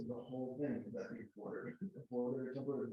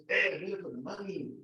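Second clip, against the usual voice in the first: put-on a light Mexican accent, breezy and a bit higher; 4 semitones higher, faster than usual. The cannonball man answers the journalist in a light Mexican accent. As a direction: toss it off like a shrug, with a hint of a Mexican accent. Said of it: "in Mexican accent".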